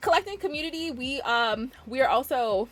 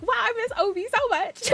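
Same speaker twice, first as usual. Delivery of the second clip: laughing quote; 10 semitones higher than usual. Retold or imitated. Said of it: "I'd be like".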